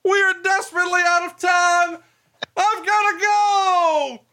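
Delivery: very high falsetto yell, stretched out; high yelled quote. Retold or imitated. Host mimicking his cohost yelling through the wall, very high falsetto. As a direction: squeal it out in a high panicked falsetto. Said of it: "and I hear".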